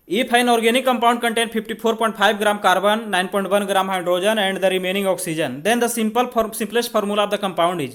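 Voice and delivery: reading the problem out word by word, very slowly; slow question reading. Shown as a demonstration. Teacher reading the exam question slowly to the class. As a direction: dictate the question slowly so students can follow.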